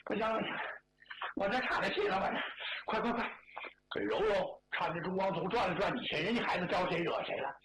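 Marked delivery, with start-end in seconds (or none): 0.0-4.6 winded groaning. Acted.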